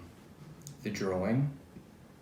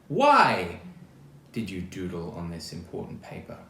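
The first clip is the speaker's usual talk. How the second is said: teacher asking; 3 semitones lower, 7 dB louder than usual. Acted. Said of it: "his teachers would ask".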